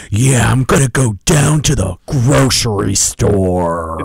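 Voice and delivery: put-on slow American accent with hard R's; over-the-top American accent. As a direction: action movie hero American drawl. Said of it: "the R's are so hard".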